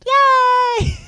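loud, bright cheer as Elmo; cheery Yay. Pretend. Elmo cheering at the heist question, excited yell. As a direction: burst out with a happy cheer.

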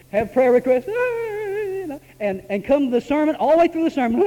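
high laughter between the words; laughing at himself. Real, not acted. Preacher laughing at his own endless crying. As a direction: giggle through the memory.

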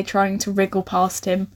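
usual speaking voice

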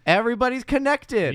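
high, loud exclamation; mock big reveal. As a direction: announce it as a grand, silly revelation. Mock big reveal of film's coincidences.

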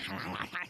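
low throaty gremlin gobbling noise. Retold or imitated. Starving mom at the night feed, mock gremlin noise. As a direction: imitate a little gremlin, low and quick. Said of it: "like a little gremlin".

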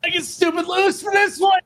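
high-pitched hype yell; hyped-up shout. Pretend. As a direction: holler it like a skit opener. Kicks off his skit shouting.

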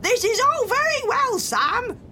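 high, loud shouted call; shouting. A narrator's reading. Pirate mother to her son on the kite, shouting. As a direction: call out loudly to someone dangling above. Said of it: "she shouted to him".

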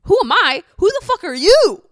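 loud, high-pitched mock outrage; outraged retort. Granddaughter to nosy stranger at the wake, loudly indignant. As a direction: fire it back, incredulous and soaring in pitch.

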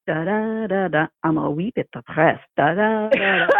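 comic Scottish brogue over a blues riff; Scottish blues singer. Retold or imitated. Podcaster retelling a comedian's routine about Scottish blues players, Scottish accent. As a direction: hum a blues lick with a Scottish lilt. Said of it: "what would that sound like?".

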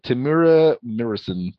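slow "Tamura Morrison", as "tuh-MEER-uh MIRR-ison"; practised pronunciation. Shown as a demonstration. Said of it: "get used to saying that".

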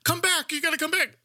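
high, desperate call; pleading shout. Retold or imitated. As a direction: beg them to return. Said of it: "And they're like".

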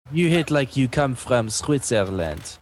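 French accent insult. Shown as a demonstration. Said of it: "give me a French accent insult".

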